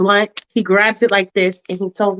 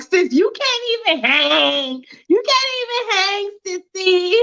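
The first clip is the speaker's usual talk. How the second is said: 1 mocking tease; 8 semitones higher than usual.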